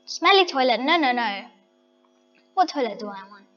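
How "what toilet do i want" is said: ordinary delivery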